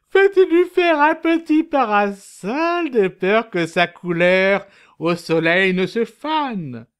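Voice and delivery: high, tender and caring. Acted. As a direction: coo it tenderly.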